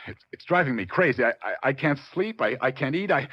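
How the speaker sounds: rising, stammering distress; distraught stammer. Acted. Client confessing sleeplessness to the detective, anxious stammer. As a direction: voice climbing as he falls apart.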